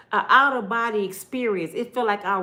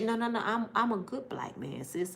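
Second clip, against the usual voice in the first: quiet reassurance; 6 dB quieter than usual. Shown as a demonstration. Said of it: "quiet reassuring".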